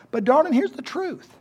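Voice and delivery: lightly voiced father, bluntly honest to a child; a hint of tactless dad criticizing the gift; mock blunt honesty. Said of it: "So I said".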